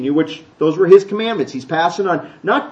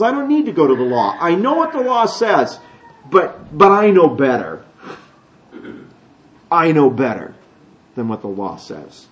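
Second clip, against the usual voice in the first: know-it-all; 2 semitones lower than usual. Retold or imitated. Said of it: "a person that says".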